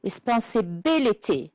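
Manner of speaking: Responsibility with the B syllable stressed; stress on BIL. Shown as a demonstration. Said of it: "It's the B".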